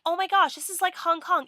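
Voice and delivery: high, loud thrilled exclaiming; excited gasp. Retold or imitated. Back in Chinatown after two years, thrilled high exclaiming. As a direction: gush like you just stepped off the plane. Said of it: "I was like".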